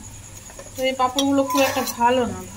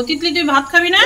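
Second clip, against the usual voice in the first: raised voice calling across the house; 5 semitones higher, 5 dB louder, faster than usual. Real, not acted. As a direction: call out to the daughter. Calling out to daughter. (মেয়েকে জোরে ডাকা)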